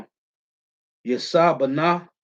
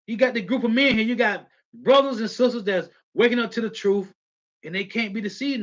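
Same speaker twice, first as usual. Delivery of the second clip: fiery preaching; 6 semitones higher than usual. Real, not acted. Preacher rousing his listeners.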